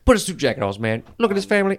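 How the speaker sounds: Steve Harvey impression. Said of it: "your impression of Steve Harvey".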